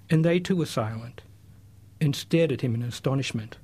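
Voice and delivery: measured literary reading of a passage; reading aloud. Acted. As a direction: read it like a storyteller, steady and clear. Reads a Nietzsche passage aloud.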